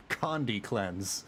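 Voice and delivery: "Condi Cleanse" said slowly through a laugh; slow laughing repeat. Real, not acted. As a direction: chuckle it out, amused at the slip. Laughs at own game mix-up.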